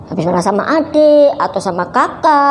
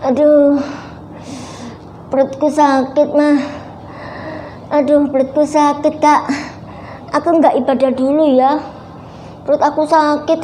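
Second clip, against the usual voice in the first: faking a stomachache; 3 semitones higher than usual. Retold or imitated. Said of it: "tapi dia bohong".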